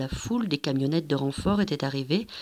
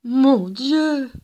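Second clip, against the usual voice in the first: gémissement effrayé; 7 semitones higher, 5 dB louder than usual. A narrator's reading. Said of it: "gémit la dame en blanc".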